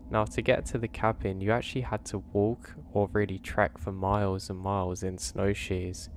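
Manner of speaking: measured first-person campfire-tale narration; scary story narration. A narrator's reading. Park ranger recounting a strange Alaska trip, story narration. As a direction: narrate a strange wilderness encounter.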